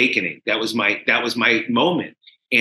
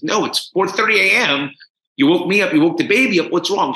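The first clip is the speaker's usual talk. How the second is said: higher, mildly irritated retort; annoyed wife; 5 semitones higher than usual. Retold or imitated. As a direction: imitate a wife cross at being woken. Acts wife woken at night.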